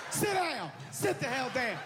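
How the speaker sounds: fed-up father barking orders; dad yelling at kids. Acted.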